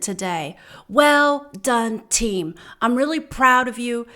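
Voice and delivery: retold team sign-off with sincere praise; imitated encouraging boss on the radio; kind, uplifting. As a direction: praise the team like a proud shift leader. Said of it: "said this really kind, uplifting".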